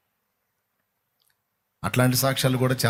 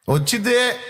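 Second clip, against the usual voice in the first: triumphant exclamation; 8 semitones higher than usual. Real, not acted.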